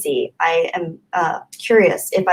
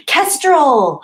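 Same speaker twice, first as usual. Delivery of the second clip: higher, louder exclamation; eureka; 7 semitones higher, 4 dB louder than usual. Real, not acted. Streamer suddenly naming the bird, surprised. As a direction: pop it out as it dawns.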